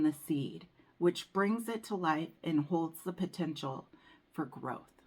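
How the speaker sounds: measured, even reading-aloud voice; reading from a book. Acted. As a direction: read the guidebook passage aloud, steady and calm. Reads the oracle book text.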